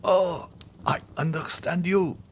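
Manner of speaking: high, slow, anguished lament; unhappy dying man. Acted. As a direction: draw it out in pained, high-pitched despair. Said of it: "said the unhappy man".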